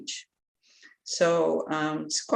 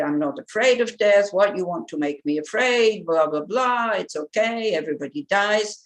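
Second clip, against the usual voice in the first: upset protest. Retold or imitated. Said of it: "she got very upset and she said".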